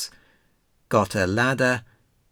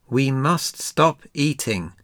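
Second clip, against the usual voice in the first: crying out; 4 semitones higher than usual. Acted. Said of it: "cried Frog".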